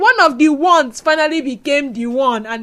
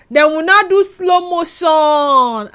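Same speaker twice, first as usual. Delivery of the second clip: mock slow motion; 3 semitones higher, 5 dB louder, much slower than usual. Acts out film slow motion.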